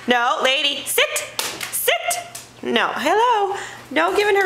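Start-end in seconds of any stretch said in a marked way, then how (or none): 0.8-2.3 whispering sit to the dog; soft whisper, coaching the child; whispered command. Shown as a demonstration. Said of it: "what do we say to the dog?".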